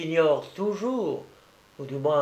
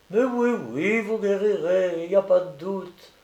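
higher, encouraging woman's voice; reassuring; 5 semitones higher than usual. A narrator's reading. Young woman promises the sick child he will recover, reassuring. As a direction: soothe his doubt with certainty.

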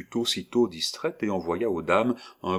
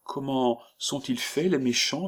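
put-on little girl; 7 semitones higher than usual. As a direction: ask with wide eyes. Child asks.

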